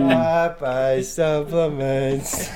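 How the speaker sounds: mock ad read. Mock ad for a fake product.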